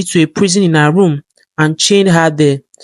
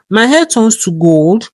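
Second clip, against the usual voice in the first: amazed question; 3 semitones higher, slower than usual. Acted. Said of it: "Goldie asked".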